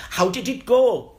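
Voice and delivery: high, loud excited lady asking; loud high-pitched curious lady; ticket lady voice. Retold or imitated. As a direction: play the eager ticket office lady.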